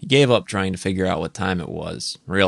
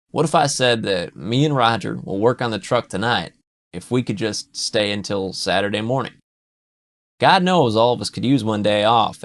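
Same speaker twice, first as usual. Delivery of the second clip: Pete's pitch; 2 semitones higher, 4 dB louder than usual. Acted. Pete bargaining with Jude to stay until Saturday, lightly raised. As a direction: talk him round like a buddy.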